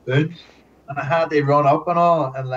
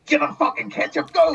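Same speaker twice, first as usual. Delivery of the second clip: laughing order; 12 semitones higher than usual. Retold or imitated. Boss ordering him to run.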